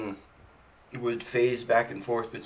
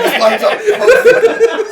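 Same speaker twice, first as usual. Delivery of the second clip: squealed through laughter, high and loud; gleeful quote, cracking up; laughing; 19 dB louder than usual. Retold or imitated. Retelling her own reaction.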